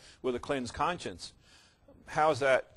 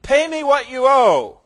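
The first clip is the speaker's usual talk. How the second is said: loud, higher, slow threatening bark; furious demand; 10 semitones higher, 12 dB louder than usual. Retold or imitated. Servant choking his fellow servant over a debt, furious shout. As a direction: grab him by the throat and demand it. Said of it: "took him by the throat, saying".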